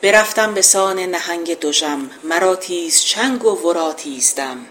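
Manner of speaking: measured epic verse reading; poem recitation. Acted. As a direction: declaim the couplet like an old epic.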